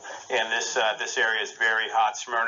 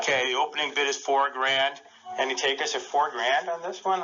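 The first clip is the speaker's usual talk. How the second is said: auctioneer; 2 semitones higher than usual. Pretend. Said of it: "I'm gonna be the auctioneer".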